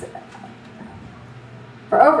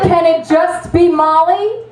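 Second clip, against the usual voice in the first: indignant retort; 6 semitones higher than usual. Retold or imitated. Indignant reply to cop.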